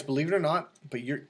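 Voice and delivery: ordinary talk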